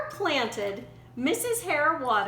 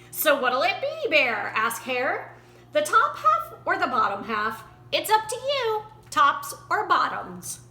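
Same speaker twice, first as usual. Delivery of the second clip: a bright, higher, lightly voiced sly hare; lightly raised wily hare voice; 3 semitones higher, 3 dB louder than usual. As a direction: sell the bargain like a cheerful trickster. Hare offers the deal.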